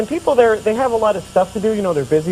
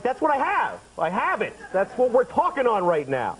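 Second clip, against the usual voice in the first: exasperated; 5 semitones higher than usual. Acted. Exasperated customer answering a solicitor.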